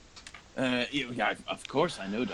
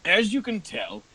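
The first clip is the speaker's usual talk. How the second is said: put-on old patron addressing the party; 4 semitones higher, 3 dB louder than usual. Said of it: "And he says".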